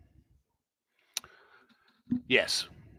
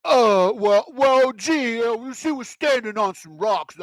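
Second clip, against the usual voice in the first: higher, loud, flustered stammer; stammering caught official; 10 semitones higher, 6 dB louder, much slower than usual. Retold or imitated. Caught official stammering an excuse to reporters, flustered. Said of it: "And you're like".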